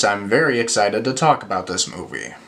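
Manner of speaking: deadpan mock enthusiasm, clearly not excited; sarcastic excitement. Reviewer feigns excitement about a movie he hates, deadpan. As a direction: fake excitement over a hated movie. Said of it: "as you can tell by the look on my face".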